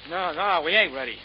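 high, loud, frightened protest; alarmed plea. Acted. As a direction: beg the gunman to wait. Gunman asks if ready to die.

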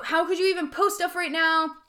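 critical inner voice. Retold or imitated. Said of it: "My type A comes up".

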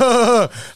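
short high laugh; high-pitched burst of retold laughter; reenacted laugh. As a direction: act out laughing at what you heard. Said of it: "like, laughing".

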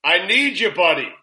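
high-pitched mock-urgent appeal, falling at the end; hammed-up begging to a pal; all-caps plea. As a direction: read a pleading all-caps text aloud. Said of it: "all capitalized".

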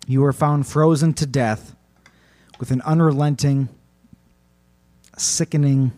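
deliberate, ominous phrases with long pauses; horror narration. A narrator's reading. Host closes tale of the Mahaha victim, solemn horror narration. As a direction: pronounce the grim ending with weight.

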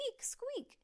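high, thin mouse-like squeak. A narrator's reading. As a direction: squeak like a startled flute. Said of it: "It sounds like a mouse".

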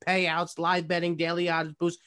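upbeat sponsor read, a touch pushed; ad read with enthusiasm. Acted. Reading the sponsor spot for the show, with forced enthusiasm. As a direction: sell the sponsor to the listeners. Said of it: "With enthusiasm".

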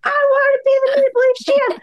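loud, very high, near-crying declaration; mock passionate cry. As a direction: scream your dream like a wrestler cutting a promo. Dubas voiced, passionate declaration.

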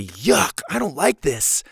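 acted yuck, then whiny complaint; rude disgust. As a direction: turn your nose up at dinner. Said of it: "That's mean. That's hurtful".

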